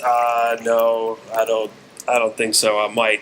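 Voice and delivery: low, subdued and noncommittal; reluctant reply. Retold or imitated. Star answers eager fan at box office, reluctant.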